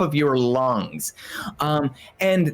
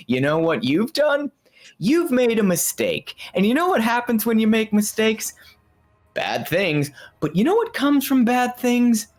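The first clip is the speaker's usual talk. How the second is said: 1 eerie teacher; 9 semitones higher than usual. Acted. Teacher figure lectures.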